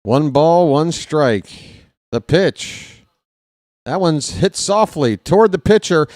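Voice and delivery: punchy, rising game call; live play-by-play. Real, not acted. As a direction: build tension into the pitch.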